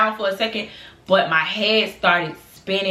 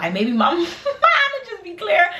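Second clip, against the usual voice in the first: high, slow, words breaking into laughter; real giggles at your own silly logic; laughing while talking; 10 semitones higher, slower than usual. Real, not acted. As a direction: crack up mid-sentence. Laughing at own drunk reasoning.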